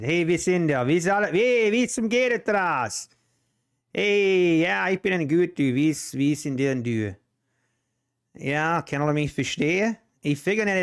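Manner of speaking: chatty Amish Dutch greetings, rattled off casually; speaking Pennsylvania Dutch. Shown as a demonstration. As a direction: show viewers how Amish Dutch sounds. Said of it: "That was me talking Dutch".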